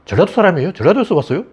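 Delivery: lightly voiced nosy questioner; mock questioning. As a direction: imitate a prying, suspicious asker. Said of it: "그 이문열이 그랬잖아".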